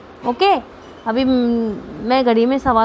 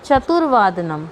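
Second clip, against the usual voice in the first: slow model word; 3 semitones lower, slower than usual. Shown as a demonstration. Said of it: "लिखेंगे पादोन".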